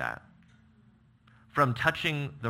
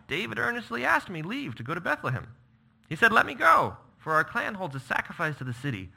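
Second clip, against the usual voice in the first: Jonathan pleading; 5 semitones higher than usual. Acted. Jonathan's reply voiced in scripture.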